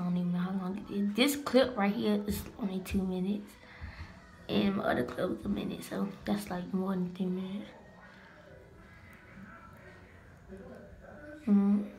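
talking while flossing teeth; fingers in mouth. Real, not acted. Seen 2: Fingers hold floss at lips and teeth throughout the labelled words.

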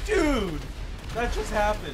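high, loud amazed exclaim; stunned yell. Real, not acted. Gamer yelling to viewers about the sudden shark attack, amazed. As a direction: shout out the shock of it.

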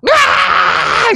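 high, loud shriek of losing control; frustrated scream. Shown as a demonstration. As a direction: scream like the mind snapped. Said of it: "이렇게 되는 거예요". (크고 높게 터지는 비명)

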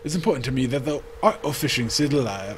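put-on loud, hearty old fisherman; old sailor voice. Fisherman greeting the newcomer, hearty and loud. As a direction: boom it out like a salty sea dog.

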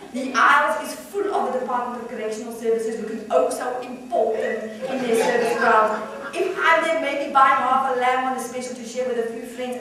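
high, loud, scornful comic rant; outraged caller holding forth, voice climbing; radio caller ranting. Acted. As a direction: rant incredulously, punching up each jibe.

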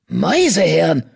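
a sharp, scornful hiss of an insult; contemptuous warrior hissing. A narrator's reading. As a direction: spit the word at him. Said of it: "fauchte der Flussclan-Krieger".

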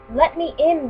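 high, loud demand at the door; mother demanding entry from the witch, loud; calling out. Acted. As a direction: call through the door. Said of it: "the mother called".

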